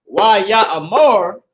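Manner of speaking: slow "Why Yah Amar", every syllable clear; careful Hebrew reading. Shown as a demonstration. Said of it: "when you read it in the Hebrew".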